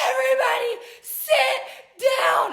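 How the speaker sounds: high, loud shouted command; screamed order. Retold or imitated. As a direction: yell it at a cabin full of passengers. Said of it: "the flight attendant screams".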